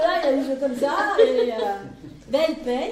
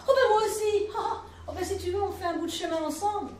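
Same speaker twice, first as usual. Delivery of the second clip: vieux rieur; 6 semitones higher, faster than usual. Acted. Petit vieux jovial rit.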